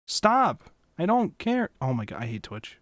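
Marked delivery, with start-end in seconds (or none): 0.0-1.7 higher, exasperated outburst; frustrated yell. Real, not acted. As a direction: snap at the screen in annoyance. Yelling at intrusive pop-up.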